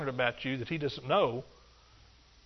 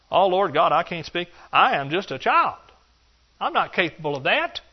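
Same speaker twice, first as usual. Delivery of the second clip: whiny excuse-maker; 3 semitones higher, 6 dB louder than usual. Acted. Preacher acting out Jeremiah's excuses.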